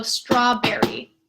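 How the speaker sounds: strawberry with long straw and quick berry; rhythm shown. Shown as a demonstration. Teacher showing short syllables. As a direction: linger on straw, rush berry. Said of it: "berry is faster than the straw part".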